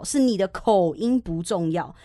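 "口音" drawn out slowly to set it apart; slow down and single out "口音"; contrastive stress. Shown as a demonstration. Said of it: "不是你的发音不重要". (放慢语速，拉长强调“口音”)

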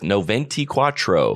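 Spanish in an unadapted American accent. Shown as a demonstration. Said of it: "try to speak in that accent".

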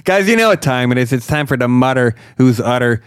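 pumped-up show intro; excited announcer. Acted. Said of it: "You wanna take that again?".

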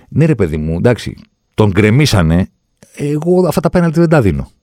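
rising into a high, scoffing parody; exaggerated mock referee shrug; mocking the VAR. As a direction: send up the VAR's lazy excuse.

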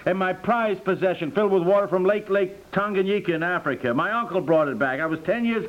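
high, frantic disbelief; husband fretting over his lost bottles; high distress. Acted. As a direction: whine like a wounded boy.

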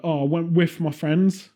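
"with" pronounced like "whiff". Shown as a demonstration. Example of British speech losing letters, "with" said with final F. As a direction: say "with" ending on an F, British style. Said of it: "quite a lot instead of with".

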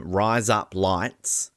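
"Rise up lights" said slowly, word by word; slow, deliberate demo of "Rise up lights"; spelled-out phrase demo. Shown as a demonstration. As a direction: sound out "Rise up lights" slowly so it can pass for razor blades. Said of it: "if you say the words".

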